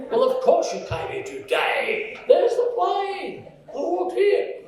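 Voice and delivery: high, indignant mock retort; mock indignant reply. Tired traveller answering the immigration officer, high mock retort. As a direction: squeak out the obvious answer in disbelief. Mocking the obvious question.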